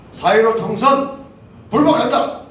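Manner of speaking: the group's statement after the election, declared loudly; proclaiming a statement. Retold or imitated. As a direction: read it out like a protest manifesto. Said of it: "이렇게 성명서 발표했습니다".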